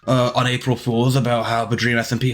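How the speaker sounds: whiny fake-nice self-praise; mocking Dream. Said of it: "this Dream being like".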